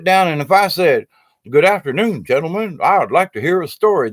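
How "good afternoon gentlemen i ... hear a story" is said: put-on higher, stiffly proper Midwestern accent. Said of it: "I can talk like a Midwesterner".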